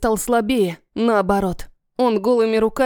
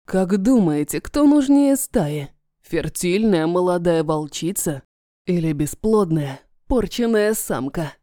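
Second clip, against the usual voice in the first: taunting dragon voice; 3 semitones lower than usual. Acted.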